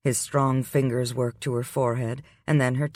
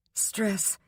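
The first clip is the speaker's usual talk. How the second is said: shaky voice; 9 semitones higher, 5 dB quieter than usual. A narrator's reading. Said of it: "she said in a shaky voice".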